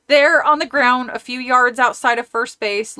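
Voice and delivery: put-on reading a kids' horror book aloud; story narration. A narrator's reading. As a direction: narrate the chapter, characters lightly voiced. Reads novel aloud between chat.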